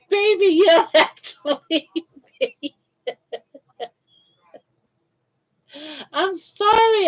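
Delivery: high pleading coo. Real, not acted. Owner pleading with her scared dog, high. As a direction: beg the dog not to go.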